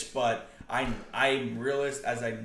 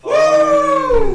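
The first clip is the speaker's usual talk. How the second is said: high, loud cheer; excited whoop; 16 dB louder than usual. Real, not acted. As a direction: whoop for the shot. Celebrating a made shot.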